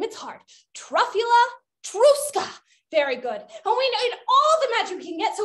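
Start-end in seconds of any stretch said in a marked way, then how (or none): 0.8-2.5 TRUFFULA, TRUSKA in two separate high pieces, rising at the end; teaching the word. Shown as a demonstration. Teacher having children retry a hard word, "Truffula, truska" in rising pieces. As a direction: model "Truffula, truska" higher, pausing between the words. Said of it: "Let's try one more time".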